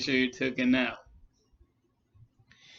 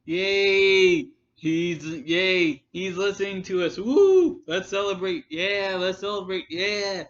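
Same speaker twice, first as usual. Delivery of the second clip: higher, hammed-up cheering; mock the giddy fan cheering; a hammed-up imitation of a gloating fan; mock celebrating; 5 semitones higher than usual. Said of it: "going like".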